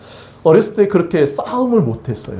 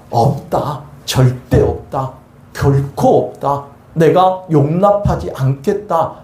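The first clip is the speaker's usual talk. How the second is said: God declaring; 2 semitones lower, slower than usual. Acted. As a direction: pronounce it slowly as God's final word. God's declaration voiced in sermon.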